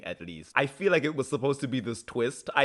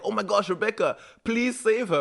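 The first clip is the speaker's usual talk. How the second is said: mock pleading; 9 semitones higher than usual. Acted plea to save April.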